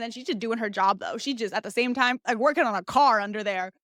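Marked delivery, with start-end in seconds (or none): none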